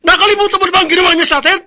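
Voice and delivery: choked, fast protest; rushing out the words close to tears; tearful anger. Acted. Brother confronting sister, tearful and angry.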